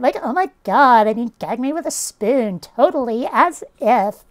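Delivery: lightly mocking Valley Girl accent. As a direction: do a hint of California Valley Girl. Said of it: "Valley Girl, California surfer dude accent".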